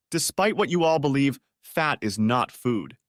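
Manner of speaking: sneer, slowing down on "fat is not food". Acted. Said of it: "she sneered".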